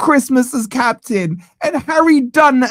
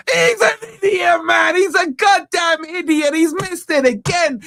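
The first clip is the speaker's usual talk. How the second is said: furious outburst; 5 semitones higher than usual. Real, not acted. Penalty miss, furious fan outburst.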